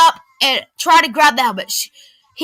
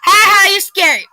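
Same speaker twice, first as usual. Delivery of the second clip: higher, louder fake laugh; mock laughter; 7 semitones higher, 6 dB louder than usual. A narrator's reading. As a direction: laugh at her to belittle. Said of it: "he laughs".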